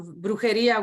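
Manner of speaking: brujeria in Spanish, bru-he-RI-a with a tapped r; Spanish word brujeria. Shown as a demonstration. Mom telling her story says brujeria in Spanish. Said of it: "we said in Spanish".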